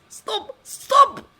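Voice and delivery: very high, rising to a loud scream; desperate begging. Acted. Strangled director screams at Jake, desperate high screams. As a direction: scream for him to stop.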